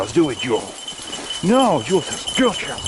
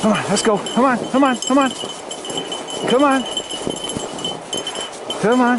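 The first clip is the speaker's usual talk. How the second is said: urging the dogs along; calling the dogs; 4 semitones higher than usual. Real, not acted. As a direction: keep calling them on.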